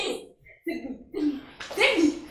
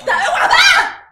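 louder, slow "back off" through laughter; laughing angry shove-off; 7 semitones higher, 6 dB louder, slower than usual. Acted. Wife pushing rival away, laughing but louder. Staged fight, shoving away.

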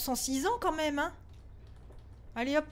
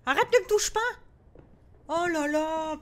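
frightened shout; 3 semitones higher, 4 dB louder than usual. Real, not acted. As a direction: shriek at it not to touch you. Le fantôme la touche. (cri apeuré, aigu et fort)

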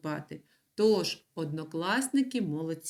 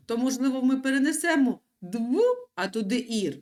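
mock wrong guess; 4 semitones higher, 4 dB louder than usual. Teacher feigns a wrong guess.

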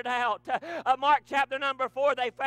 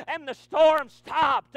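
slow, loud, drawn-out shout; preaching shout; 6 dB louder, much slower than usual. Acted. Preacher shouting to the church that the storm stopped, slow and loud. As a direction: proclaim it like the storm just broke off.

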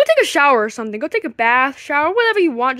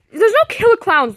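louder, sharp insistence; exasperated snap; 5 semitones higher, 4 dB louder than usual. Acted. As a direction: shut the worry down hard. Mario snaps at Luigi.

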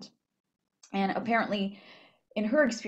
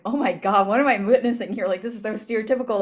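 shocked; 4 dB louder, faster than usual. Retold or imitated. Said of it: "I was, like, so shocked".

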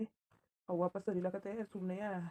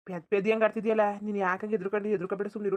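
firm scolding; 6 dB louder than usual. Acted. Husband scolds frightened wife.

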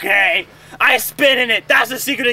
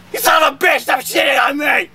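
shouting; 2 semitones higher than usual. Acted. Yelling up at the man upstairs.

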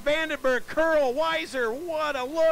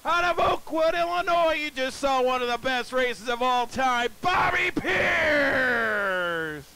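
excited winning call. Real, not acted. Announcer calls the race winner.

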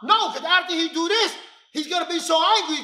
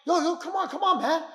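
light, higher-pitched mock protest; complying; 3 semitones higher, faster than usual. Defender pretends to comply with an angry man, light pleading protest. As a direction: play innocent and placating. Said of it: "seem like you're complying".

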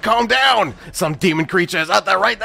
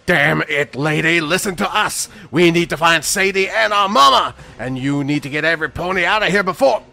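high, strained shouting; frantic, high-pitched anger, speeding up; angry urgent plea; 9 semitones higher than usual. Acted. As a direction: shout at her to listen. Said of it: "Weston angrily frowned".

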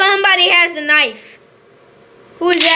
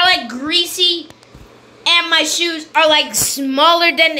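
exasperated complaint; 4 semitones higher than usual. Real, not acted. Complains about failing to climb.

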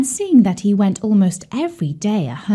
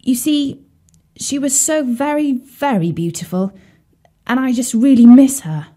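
croaky frog voice; 4 semitones higher than usual. Acted. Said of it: "He croaked for a bit".

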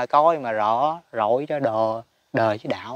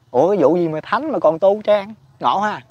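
higher, louder puzzled question; hammed-up disbelief at Buddhas still practising; mock surprise; 6 semitones higher, 5 dB louder than usual. The teacher mocks the idea of Buddhas needing practice, surprised. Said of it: "Huynh nói vậy đó".

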